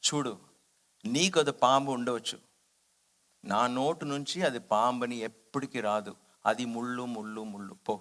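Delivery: the master calmly overruling his devotee; soft but firm. Retold or imitated. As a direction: settle it kindly but without doubt. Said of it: "softly but very beautifully he said, firmly".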